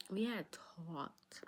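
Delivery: very slow breathy whisper; hushed slow aside; whispered slowly. Retold or imitated. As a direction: drop to a secretive whisper.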